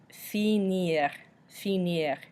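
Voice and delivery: finir as fee-NEER, French style; final R sounded. Shown as a demonstration. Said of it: "we can still pronounce the R".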